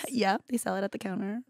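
hushed aside; whisper. Real, not acted. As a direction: whisper it like a secret. Whispered aside about makeup.

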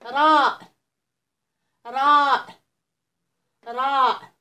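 letter called out loudly, clear and drawn; loud model letter. Shown as a demonstration. Teacher drilling young pupils aloud. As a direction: say it big so the kids copy. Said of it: "غنعاودوا مع بعضياتنا".

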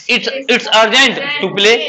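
each word drawn out for the class; a teacher spelling out the English slowly; slow model sentence. Shown as a demonstration. Teacher to his pupils, modelling the phrase very slowly. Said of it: "खेलना अति आवश्यक है".

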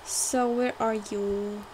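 slow, drawn-out question; unhurried, lingering question; slow musing. Real, not acted. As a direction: stretch the question out while searching. Slow lead-in to sung repeat.

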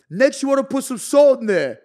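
hyped cooking voice. Retold or imitated. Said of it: "if I go like".

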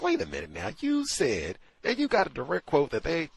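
exasperated. Retold or imitated. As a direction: push back loudly, like catching her out. Retelling own quarrel on air.

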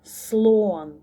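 "Слон" said on its own, drawn out a little; teacher's careful "Слон"; model pronunciation. Shown as a demonstration. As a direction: model "Слон" clearly for children. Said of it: "Промовте це слово".

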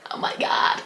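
hushed, whispered amazement; awed whisper. Real, not acted. Vlogger unwrapping a festival skirt, awed whisper. Repeats reaction in hushed awe.

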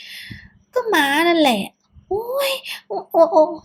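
slow whine rising to high yelps; yelping in pain. Acted. Son gets slapped on the back by mother, pained yelps. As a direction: whine then yelp as you're slapped. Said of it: "ผมโดนม้าฟาดหลัง".

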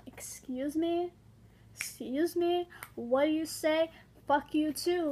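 slow, rising excuse me; indignant comeback. Pretend. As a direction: act offended at a mocker. Imagined comeback to bullies.

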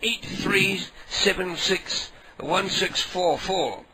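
slow, deliberate digits, each one spaced out; slow dictation. Pretend. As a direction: read the number so it's written down. Dictating number slowly.

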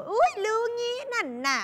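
high, sing-song sarcastic jab; a hint of a catty girlfriend; mock sarcasm. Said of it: "ประชดประชัน".

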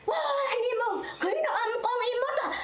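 high-pitched cry for help, retold; calling out to the comrades in alarm; retold yell. Mother crying out to comrades that monkeys took her baby, high alarmed yell. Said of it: "Nó la lên".

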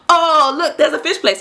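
high-pitched mock delight; excited imitation. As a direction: imitate someone eagerly spotting a treat. Acting out excited date spotting restaurant.

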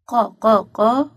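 "ق، ق، ق" as slow, separate qa beats; slow, spaced "ق" syllables, each qa; qaf with fatha. Shown as a demonstration. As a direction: drill "ق" slowly three times as qa. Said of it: "قاف فتحة".

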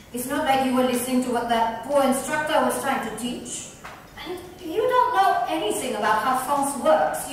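Violet's defensive outburst at Neera. Acted. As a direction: snap back in a defensive outburst. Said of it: "surprised at Violet's outburst".

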